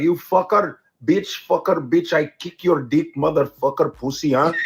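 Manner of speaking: mock Indian accent, stringing swear words; imitated Indian-accented tirade; clumsy Indian-accented cursing. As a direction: curse awkwardly in an Indian accent. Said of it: "they don't know how to curse".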